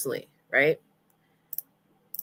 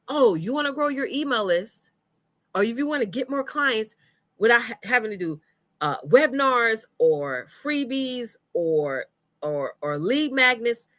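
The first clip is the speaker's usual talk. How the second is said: higher, sing-song sales come-on; mock ad pitch; 5 semitones higher than usual. Coach mimics ads promising list growth, mock sales pitch. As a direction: reel them in like ad bait. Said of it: "it's like they tell you".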